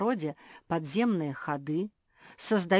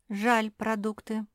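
usual speaking voice

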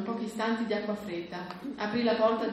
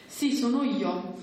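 imitating his father's deep voice; 3 semitones higher, 3 dB louder, slower than usual. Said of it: "cercando di imitare la voce grossa di suo padre".

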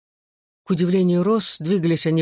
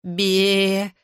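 bleating. A narrator's reading. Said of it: "заблеял он".

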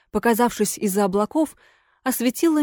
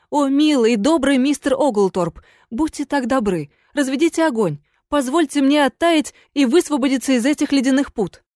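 higher, sweetly begging; imploring ghost lady; 4 semitones higher than usual. Acted. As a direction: plead for a fire to thaw. Ghost pleads for fire.

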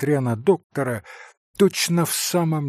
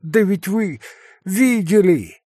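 despairing; 6 semitones higher, 4 dB louder than usual. A narrator's reading. Captain despairs at poverty.

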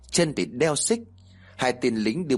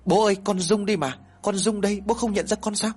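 higher-pitched, pleading cry, acted with restraint; understated wail, pitched up to plead; tearful crying out; 8 semitones higher than usual. A narrator's reading. Daughter begging her beaten father in a dream, restrained tearful cry. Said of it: "thì gào khóc ầm lên".

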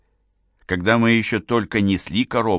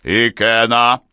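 louder, slow "Икена"; roar; 3 semitones higher, 6 dB louder, slower than usual. A narrator's reading. Father roaring for his son, loud roar. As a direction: bellow the name. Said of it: "взревел отец".

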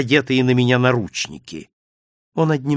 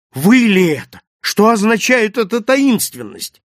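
higher, louder astonished questioning; taken aback, voice lifted; 7 semitones higher, 5 dB louder than usual. A narrator's reading. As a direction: demand an explanation in amazement. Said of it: "вырвался крик изумления".

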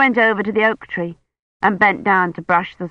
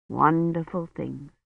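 slow soft echo; 8 dB quieter, slower than usual. A narrator's reading.

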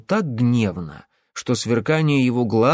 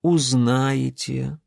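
mysterious promise; much slower than usual. Acted. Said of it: "многообещающе покивал Митя".

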